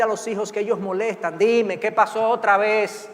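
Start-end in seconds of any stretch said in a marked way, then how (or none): 1.4-3.1 slow, louder, fed-up sigh of a question; impatient parent. Retold or imitated. Annoyed parent to the pestering child, weary and impatient. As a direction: let the child know he's a bother.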